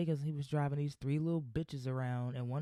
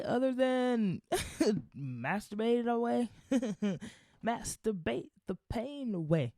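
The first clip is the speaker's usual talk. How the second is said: laughing joke; 6 semitones higher than usual. Real, not acted. Joking about bad days.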